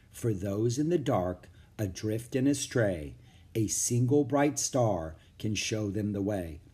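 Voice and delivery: slow, gently recited verse; soft recitation. Acted. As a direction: recite it softly, like a remembered rhyme. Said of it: "Softly, she recited".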